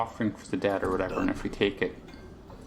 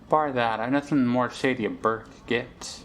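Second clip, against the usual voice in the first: put-on Irish accent. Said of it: "I have a vaguely Irish accent".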